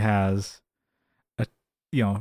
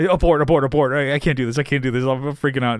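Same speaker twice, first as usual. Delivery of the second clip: louder, repetitive panicked blurting; mock freak-out; 3 semitones higher, 3 dB louder, faster than usual. George bailing on the plan as he sees the girl, mock panic. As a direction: act out George losing his nerve. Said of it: "George freaks out".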